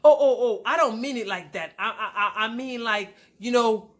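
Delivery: stammering imitation, loud at the start; mock backpedaling. Husband excusing himself to wife, mock flustered. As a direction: stumble over a hasty excuse.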